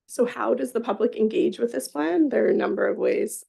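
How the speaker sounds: thin, metallic sound on the line; tinny audio like a cheap mic. Real, not acted. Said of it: "Sorry, I sound tinny today".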